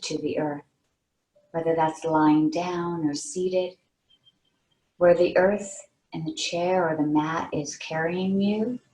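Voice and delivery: unhurried meditation guide, pausing between phrases; guided meditation. Real, not acted. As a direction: lead them gently into relaxation, leaving long pauses. Leads a meditation.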